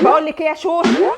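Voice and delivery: loud, insistent call to a neighbour; calling out sharply. Acted. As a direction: call out to demand attention. Calls out to the neighbour, arguing.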